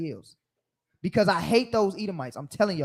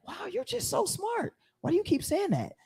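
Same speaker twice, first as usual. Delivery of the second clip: condescending white person; 13 semitones higher, 7 dB quieter than usual. Retold or imitated. Mocking white people praising a black man, high and sugary. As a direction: coo it like praising a toddler. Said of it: "condescending to you".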